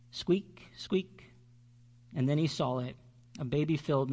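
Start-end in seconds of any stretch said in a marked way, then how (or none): 0.1-1.3 high little squeaks, fading to a whisper; mouse squeak. A narrator's reading. Baby mouse lost in the snow, squeaking high.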